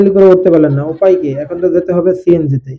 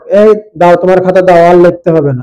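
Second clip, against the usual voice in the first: loud stern exam invigilator; stern teacher ordering; 5 dB louder than usual. Acted. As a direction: demand the paper back sternly. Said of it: "শিক্ষক". (কড়া শিক্ষকের আদেশ)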